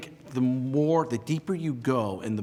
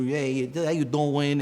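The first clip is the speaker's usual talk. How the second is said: overly proper speech; 4 semitones higher, 3 dB louder, slower than usual. Retold or imitated. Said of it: "I thought that I needed to speak this way".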